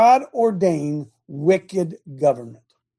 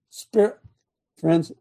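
out of breath; slower than usual. Real, not acted. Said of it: "let me catch my breath here".

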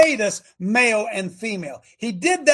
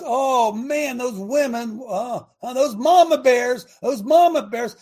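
mock gushing; 5 semitones higher, 4 dB louder than usual. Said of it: "everybody talks about".

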